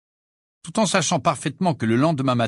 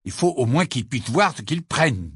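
decided; 2 semitones higher than usual. Acted. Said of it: "d'un ton décidé".

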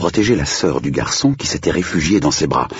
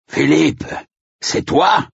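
raised, high-pitched questioning call; crying out; 13 semitones higher, slower than usual. A narrator's reading. Andrew to the strange shape among the trees, calling out. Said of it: "cria Andrew".

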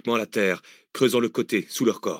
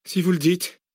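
sceptical, higher voice; doubtful concession; 9 semitones higher than usual. Acted. Cécile answering Arsène, sceptical shrug. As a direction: let it go, unconvinced. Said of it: "conclut Cécile".

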